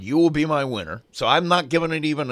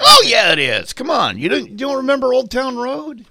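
excited protest; 10 semitones higher, 7 dB louder than usual. Real, not acted. Co-host doubts the song is contemporary.

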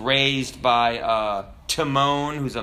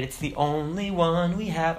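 mocking; 3 semitones higher than usual. Preacher imitating people worried about the planet, mocking. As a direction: make light fun of the worriers. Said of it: "I'm sorry if I'm mocking it. I am mocking it".

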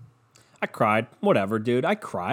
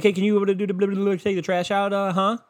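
imitating mom; 9 semitones higher than usual.

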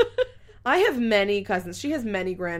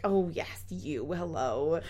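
mock dismissive granny; 2 semitones lower, 4 dB quieter, slower than usual. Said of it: "I'm making her sound like she's a mean lady".

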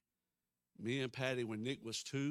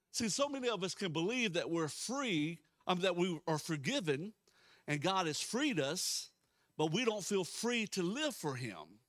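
raised, earnest preacher voice; emphatic preaching; 6 semitones higher, 6 dB louder than usual. Real, not acted. Pastor explaining freedom to believers, emphatic preaching. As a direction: press the point on the congregation.

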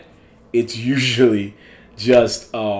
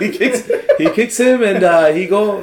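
French chef; 8 semitones higher than usual. Retold or imitated. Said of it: "We're not making fun of French people".

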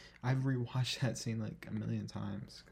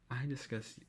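louder, slow, offended throw-back; indignant outburst; 5 dB louder, slower than usual. Retold or imitated. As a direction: fling the words back at him, louder and slower. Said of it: "she was not having that".

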